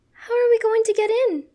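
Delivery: high, sustained loud scream. A narrator's reading. Serena desperate at the burning building, screaming. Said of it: "she screams".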